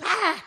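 short, high exasperated cry; mock scolding yell. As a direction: imitate a fed-up mother's outburst. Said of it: "pelean con los hijos".

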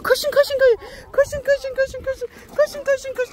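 repeated high coaxing call; calling hens. Real, not acted. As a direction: chant them along to run. Calling the chickens to run.

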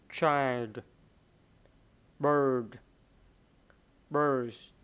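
loud, isolated words for learners to follow; model pronunciation. Shown as a demonstration. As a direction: read each word firmly, letting it fall. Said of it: "Rồi, một lần nữa nha". (đọc mẫu to, rõ từng từ)

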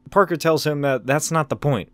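ordinary talk

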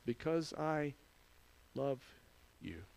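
very soft, halting, with pauses between words; tender answer as Jesus. Acted. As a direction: answer softly, letting each word land.

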